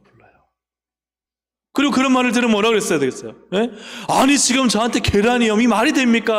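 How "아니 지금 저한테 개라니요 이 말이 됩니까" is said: higher and louder, a mock protest; complaining retort. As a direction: talk back like an offended woman. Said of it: "불평하고 원망하고 대들어야 되는데요".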